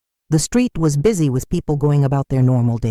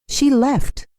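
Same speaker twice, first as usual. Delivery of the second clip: stunned repeat; 10 semitones higher than usual. Acted. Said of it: "I repeated stupidly".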